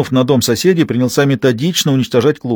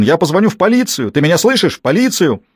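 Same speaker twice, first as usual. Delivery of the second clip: higher, raised threat of police; shouting threat; 6 semitones higher than usual. A narrator's reading. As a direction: yell it, pushing the word полицию. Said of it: "кричал он".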